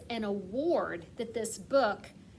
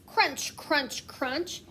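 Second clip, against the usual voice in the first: crunching footsteps; 3 semitones higher, much slower than usual. Acted. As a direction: sound out the snow steps for kids. Sound words from story.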